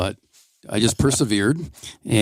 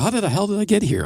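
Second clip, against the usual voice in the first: mock dismay; 11 semitones higher than usual. Retold dismay at reaching fifties.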